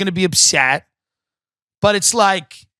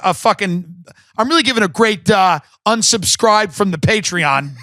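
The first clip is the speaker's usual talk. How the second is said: ordinary talk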